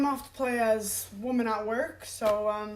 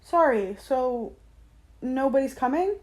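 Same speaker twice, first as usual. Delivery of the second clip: customer service voice; 3 semitones higher than usual. Real, not acted. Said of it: "my customer service voice".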